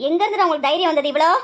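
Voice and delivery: stern, confronting demand; angry scolding. Acted. Mother confronting sons who came unasked, angry scolding. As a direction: take the boys to task angrily. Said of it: "ஏன் இவ்ளோ கோவப்படுறீங்க".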